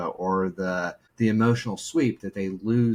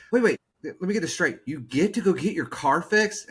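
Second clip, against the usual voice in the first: much higher, playful disbelief; mock amazement; 9 semitones higher than usual. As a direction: overplay the wonder. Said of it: "started catching on what I was doing".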